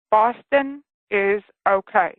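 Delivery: slow, deliberate, each word spelled out; very clearly. Retold or imitated. A dead man spells out a message to his wife, slow and deliberate. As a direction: lay it out slowly so it can't be missed. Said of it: "he said very clearly".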